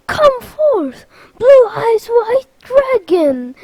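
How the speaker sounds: high, loud dramatic call; battle summons. Acted. Sora repeating his card summons to Marluxia, loud summons. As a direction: proclaim it like a monster summoning.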